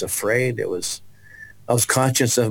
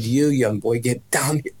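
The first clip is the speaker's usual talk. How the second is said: commanding preacher. Retold or imitated. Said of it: "And she said".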